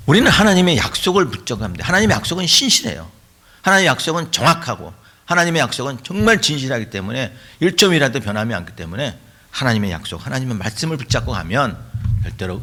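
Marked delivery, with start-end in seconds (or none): 0.1-7.3 high-pitched, insistent preaching; preacher's rising fervour; emphatic preaching. Real, not acted. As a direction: press each point home to the congregation. Preaches with force.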